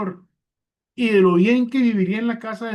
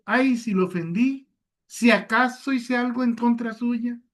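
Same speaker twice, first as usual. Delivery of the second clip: higher, sing-song evasive sorry; mock vague apology; 6 semitones higher than usual. Shown as a demonstration. Preacher parodying the wrong way to apologize, higher and evasive. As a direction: toss off a careless, dodging apology. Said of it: "No, ¿verdad? No es la forma correcta".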